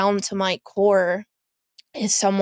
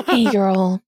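sultry voice; 4 dB louder than usual. Pretend. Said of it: "You got that sexy, sultry voice going on there".

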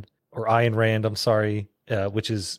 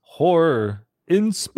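slow, loud drawn-out horror announcer; announcer bit; 6 semitones higher, 5 dB louder, much slower than usual. Pretend. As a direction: stretch it out like a creepy trailer title, louder and higher. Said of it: "Give it to us, Chris".

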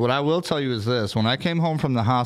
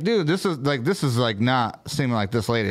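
retold disbelief. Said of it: "And I'm like".

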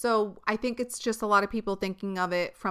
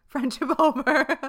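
high, loud, drawn-out through laughter; joking friendship-ending verdict, cracking up; laughing mock declaration; 6 semitones higher, 7 dB louder than usual. Laughing mock breakup, repeated.

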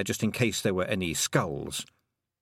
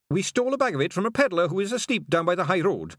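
Scottish pixie; 9 semitones higher than usual. A narrator's reading. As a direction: stall politely as a pixie. Feegle chief voiced in story.

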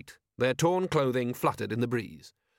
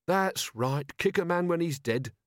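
higher-pitched, offended retort; sharp retort; 6 semitones higher, slower than usual. A narrator's reading. Offended zombie constable to the robbers, sharply. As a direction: answer back sharply. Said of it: "said Constable Shue sharply".

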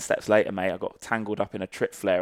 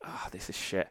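breathy whispered groan of defeat, much softer; whispered despair; 10 dB quieter than usual. Retold or imitated. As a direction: mutter it under your breath, beaten. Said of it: "I was like".

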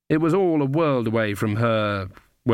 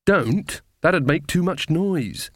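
higher-pitched urgent hiss, still voiced; hissed warning; 6 semitones higher, slower than usual. A narrator's reading. Magrat warning against the noise, urgent high hiss. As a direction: stop her urgently, pitched up. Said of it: "hissed Magrat".

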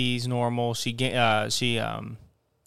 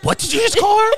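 much higher, louder scandalized mother, laughing; mock shocked mom; 7 dB louder than usual. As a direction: squeal it like a horrified grandma. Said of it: "and she's like".

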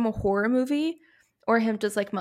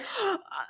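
acted-out gasp on waking; mock jolted-awake gasp; startled gasp; 11 semitones higher, 8 dB quieter than usual. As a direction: suck in a sudden frightened breath. Acting out waking up in fright.

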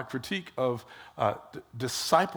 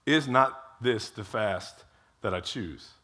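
slow, low pointed rebuke; 5 semitones lower, slower than usual. Retold or imitated. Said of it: "And then God says".

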